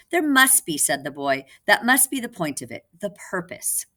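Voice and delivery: put-on high, loud eager boy; eager insistence. Boy puppet insisting to the girl, high and loud. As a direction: insist with bright conviction.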